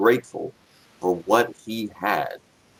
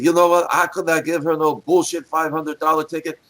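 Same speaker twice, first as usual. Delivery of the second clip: raised, emphatic imitated voice; Nikolai; 7 semitones higher than usual. Inspector refuses to ticket the old lady, imitated higher voice. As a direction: quote the big-hearted inspector in a higher voice. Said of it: "he said".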